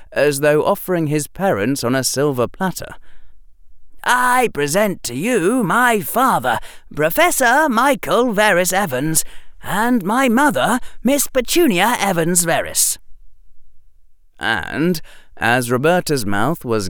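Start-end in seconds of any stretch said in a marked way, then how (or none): 4.1-13.0 put-on high, grand young boy making a formal introduction; a little boy showing off with ceremony; pompous boy. Boy formally presents his parents.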